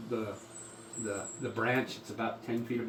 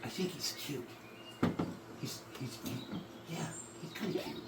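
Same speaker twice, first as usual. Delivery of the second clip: soft, light female voice; woman's voice; 3 semitones higher, 10 dB quieter than usual. Acted. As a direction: voice a cooing pixie girl. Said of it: "a woman's voice go".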